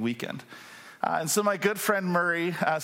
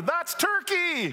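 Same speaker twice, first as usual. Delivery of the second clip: much higher, slow loud explaining; louder and louder; much slower than usual. Retold or imitated. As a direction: spell it out loudly to a foreigner. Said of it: "she's speaking louder and louder".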